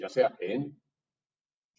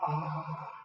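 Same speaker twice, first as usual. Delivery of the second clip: airy, voiceless "ah" sound. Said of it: "sin voz".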